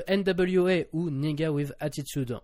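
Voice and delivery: put-on playful English accent, a little slow. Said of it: "mon magnifique accent anglais".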